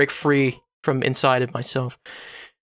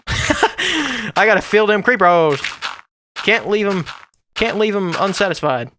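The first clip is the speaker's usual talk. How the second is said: laughing; 4 semitones higher than usual. Real, not acted. Laughing at own joke.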